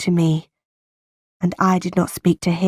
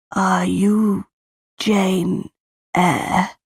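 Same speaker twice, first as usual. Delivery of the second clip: a sick old aunt's question, lightly voiced, breaking at the end; barely able to ask it, a crack on Eyre; very slowly; much slower than usual. A narrator's reading. Dying aunt finally asks Jane who she is, faintly breaking. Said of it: "She spoke very slowly".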